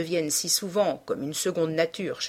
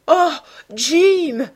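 high, loud cry, as if amused; merry exclamation; 10 semitones higher, 11 dB louder than usual. A narrator's reading. Sister amused by her brother, merrily exclaiming. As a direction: exclaim brightly on a swooping high pitch. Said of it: "dit Sibyl en riant".

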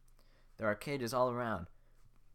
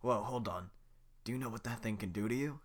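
nervous villager voice. Acted. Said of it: "I'll just do the voices".

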